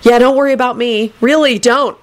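high, aggrieved sarcasm; sarcastic grievance. A narrator's reading. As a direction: protest with wounded sarcasm. Neville sulks sarcastically at friend.

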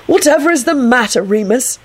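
high, lilting mild inquiry. A narrator's reading. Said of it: "he said mildly".

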